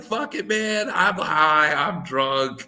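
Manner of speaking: retold drunken concert hype, starting high; wild excitement. Telling friend about a wild night out, hyped-up. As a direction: re-enact losing it to a favorite band, pitch jumping.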